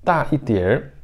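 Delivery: normal talking voice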